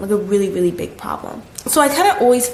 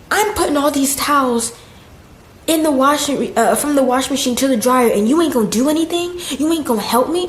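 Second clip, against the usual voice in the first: higher-pitched mock indignation; scolding boss; 5 semitones higher than usual. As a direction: imitate an indignant boss demanding help. Acting out boss scolding her.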